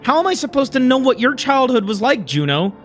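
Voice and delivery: hurt, accusing, pitch lifting; bitter retort. Acted. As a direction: argue back with a touch of anger. Acted bitter retort in quarrel.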